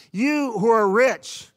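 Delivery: slow solemn warning. Acted. Solemn reading of the verse.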